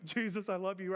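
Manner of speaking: imitating tearful worship; put-on weepy devotion; mock weeping. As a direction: briefly act out weeping to Jesus. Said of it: "I'm just weeping".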